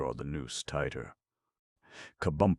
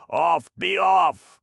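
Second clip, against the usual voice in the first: much louder and higher, frantic; hysterical shout; 12 dB louder, slower than usual. A narrator's reading. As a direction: shriek them away. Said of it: "they shouted hysterically".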